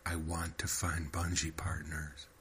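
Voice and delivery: soft, drawn-out recital on the out-breath; slow recitation on exhale. Acted. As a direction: let the words ride the exhale. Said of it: "slowly recite it as you exhale".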